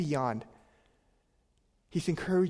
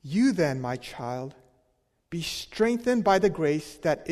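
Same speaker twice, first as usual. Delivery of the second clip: steady, measured reading of the verse; scripture reading; 4 dB louder than usual. Acted. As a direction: read the passage with weight. Reads scripture aloud.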